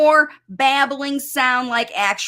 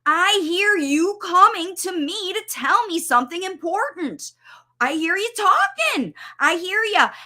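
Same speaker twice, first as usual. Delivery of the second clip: reassuring; 7 semitones higher than usual. Shown as a demonstration. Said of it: "You say".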